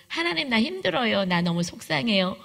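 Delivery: 1 demo prayer. Shown as a demonstration. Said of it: "라고부터 시작한다".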